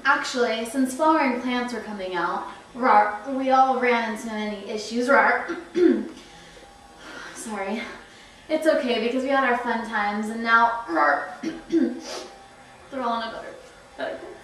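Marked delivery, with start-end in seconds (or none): 2.8-3.3 dinosaur rawr. Acted. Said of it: "it's a rawr condition". 5.1-5.6 dinosaur rawr. Acted. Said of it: "it's a rawr condition". 10.9-11.3 dinosaur rawr. Acted. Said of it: "it's a rawr condition".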